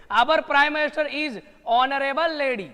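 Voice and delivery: the sentence stretched out slowly; slow dictation read. Shown as a demonstration. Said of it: "ऑनरेबल का उच्चारण देखो". (धीमी गति से वाक्य पढ़ना)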